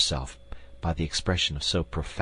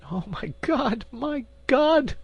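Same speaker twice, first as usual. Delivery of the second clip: anguished cry; slower than usual. Acted. Queen overwhelmed by the duke's words, anguished cry. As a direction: cry out in distress. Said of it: "cried Anne of Austria".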